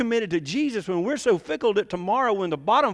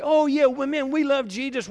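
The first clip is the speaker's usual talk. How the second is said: mock enthusiasm; 5 semitones higher than usual. Preacher mimicking churchgoers' big facade, mock enthusiastic. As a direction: gush it like a false front. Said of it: "put up this big facade and say".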